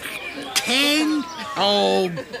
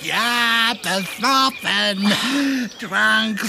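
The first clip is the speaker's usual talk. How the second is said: put-on giggly drunk admission. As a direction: laugh it off, slurring a bit. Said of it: "du bist richtig besoffen".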